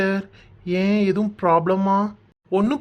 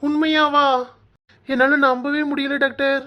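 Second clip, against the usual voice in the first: high, overwhelmed voice; barely believe it, moved towards tears; tearful disbelief; 5 semitones higher than usual. Acted. Husband doubts the doctor's happy news, tearfully amazed. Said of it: "ஏன் அழுகுறீங்க".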